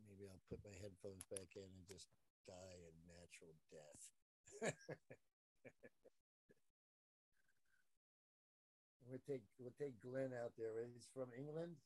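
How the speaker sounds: faint, distant voice; far away. Real, not acted. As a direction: speak from across the room. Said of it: "you sound so far away".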